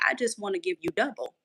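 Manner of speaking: God speaking, soft. Retold or imitated. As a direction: say it gently, as God would. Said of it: "I heard God say".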